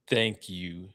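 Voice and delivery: low, soft hint of a Russian accent; tentative Russian-accented delivery; attempted Russian accent. Shown as a demonstration. Thanking Vladimir Putin on request, tentative Russian accent. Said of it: "do it in a Russian accent".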